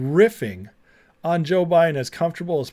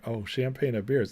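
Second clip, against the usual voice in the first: mock Kamala, laughing; 3 semitones lower, 7 dB quieter than usual. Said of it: "She's like".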